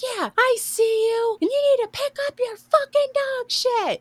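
put-on, very high, frantic, losing-it outburst. Retelling what they said to a woman who waved at them, acting out freaking out. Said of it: "And I'm freaking out".

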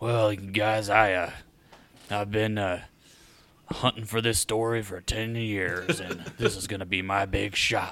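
gruff, rough, low-pitched voice. Describing a hard-boiled journalist who wants the story, speaker uses a low gruff voice. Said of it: "like this low, like gruff voice".

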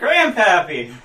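very loud, high, squeaky little voice. Narrating a scene, the speaker voices the scrawniest dwarf, squeaky dwarf voice. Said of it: "just sort of like squeaks out".

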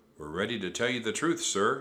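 ordinary delivery

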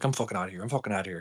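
fast, hushed muttering mumble. Telling about a man who flipped out at work again, imitating someone mumbling. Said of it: "he starts just mumbling himself like".

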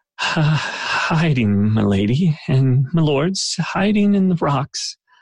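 halting, faltering, slow, high-pitched stammer. A narrator voices a man answering Skolovig's question, slow stammering. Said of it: "he slowly stammers".

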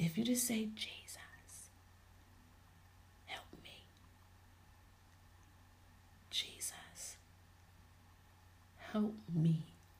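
faintest weak, breathy, pleading whisper. Showing how someone tired of crying and alone would say it: weakest voice. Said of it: "with the weakest voice".

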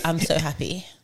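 put-on flat monotone. Describing a monotone friend: imitating a friend's monotone. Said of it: "they're just monotone".

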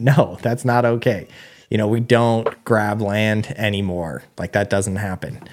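normal talking voice

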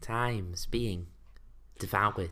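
voice like a TV science presenter. Repeating a phrase after the other speaker asks for a voice: Brian Cox voice. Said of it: "Say it in a Brian Cox voice".

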